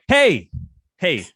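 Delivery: a loud, cheery hey to everyone; hearty greeting. Retold or imitated. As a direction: greet the whole room big to shake off nerves. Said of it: "I'm like".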